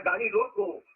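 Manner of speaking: slow गाड़ी रोको, weight on रोको; stress on रोको. Shown as a demonstration. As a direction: lean on रोको and pause after it. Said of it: "यहाँ बल है".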